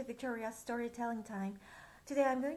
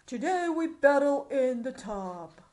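loud royal proclamation; stagey fake archaic declaiming; 12 dB louder than usual. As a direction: proclaim it like a merry king. King declaring loudly.

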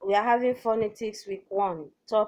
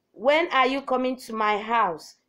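"When are you coming to my house?" starting raised, falling at the end; falling-tone question; 3 semitones higher than usual. Shown as a demonstration. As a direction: ask it, letting "house" drop in pitch. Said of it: "Interrogative question with a falling tone".

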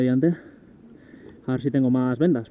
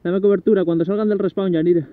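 higher, louder call to teammate; cover me shout; 5 semitones higher, 4 dB louder than usual. Real, not acted. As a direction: shout the order across. Calling teammate for cover in game.

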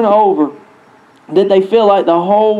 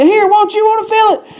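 imitating excited wife; 9 semitones higher than usual. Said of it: "she said".

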